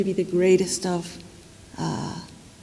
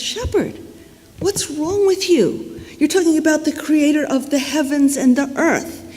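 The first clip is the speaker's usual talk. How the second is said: mildly indignant, higher-pitched scolding; incensed; 5 semitones higher than usual. Acted. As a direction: rebuke the shepherd in acted outrage. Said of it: "he's just incensed".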